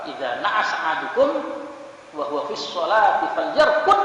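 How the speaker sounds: FALYARQUD pitched high and loud at the end; rising, emphatic recitation landing hard on falyarqud; forceful quoted intonation. Retold or imitated. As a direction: punch "falyarqud" at the close. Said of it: "Salah intonasi saja bisa masalah".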